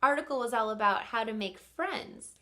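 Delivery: voicing puzzled kids. Teacher voicing her class's doubt: a lightly puzzled kid. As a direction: play the puzzled listener with a mild mock question. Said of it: "And you might be thinking".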